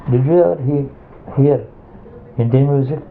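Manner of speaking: "did you ever hear Indian music" asked word by word; example question. Shown as a demonstration. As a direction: demonstrate the question with separated stresses. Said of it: "It is stress on every word".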